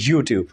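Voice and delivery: ইউটিউব demonstrated alone with a Y glide; Y-sound YouTube. Shown as a demonstration. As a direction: say ইউটিউব as yoo-tiub, tongue to palate. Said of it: "জিভলাটা ভাঁজ হয়ে যায়".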